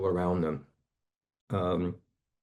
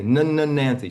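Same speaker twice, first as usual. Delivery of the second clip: mock stutter; 5 semitones higher, 5 dB louder than usual. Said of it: "So I say".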